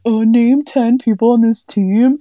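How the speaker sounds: hammed-up gatekeeping bro; dude bro quizzing. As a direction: grill her like a smug sports bro. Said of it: "dude bros do it, where they're like".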